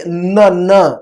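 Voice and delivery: نہ as a short "na" with a held N; isolated letter sound. Shown as a demonstration. Teacher shows tongue tip at work, نہ with lengthened N. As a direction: press the N before releasing نہ. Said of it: "جب ہم نہ بول رہے ہیں".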